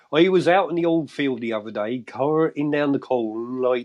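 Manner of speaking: put-on broad, drawn-out Fens farmer accent; Fenland accent. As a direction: ham up a rural Cambridgeshire Fen local. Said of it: "Cambridge accent was like the Fen".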